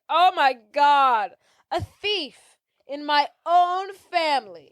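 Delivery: slow, drawn-out melodrama; hammed-up horror with swooping pitch; so dramatic. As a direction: play the scandalized dame, stretching each phrase. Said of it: "is being so dramatic".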